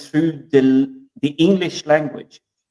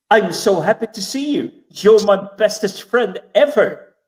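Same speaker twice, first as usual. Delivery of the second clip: cheery greeting; 6 semitones higher than usual. Retold or imitated. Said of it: "it's a greeting word".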